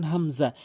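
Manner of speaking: হামজা cleanly from the start of the throat; start-of-throat hamza. Shown as a demonstration. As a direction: say হামজা without mid-throat squeezing. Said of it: "হলকের শুরু থেকে উচ্চারণ করবেন". (হামজা হলকের শুরু থেকে)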